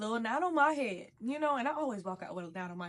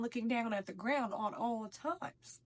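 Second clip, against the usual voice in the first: whisper; 3 dB quieter, slower than usual. Retold or imitated. Acting meek at the party.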